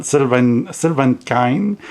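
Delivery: Sylvan said the English way, ending in a plain "vən"; English pronunciation. Shown as a demonstration. Explaining the English version of the name, English pronunciation of Sylvan. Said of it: "It's the English version of my name".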